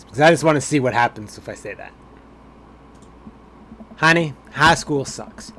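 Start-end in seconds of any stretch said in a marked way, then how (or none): 4.0-5.5 "high school sucks" said slowly and louder, as a dad to his daughter; fatherly reassurance. Acted. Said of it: "I'm gonna go with high school sucks".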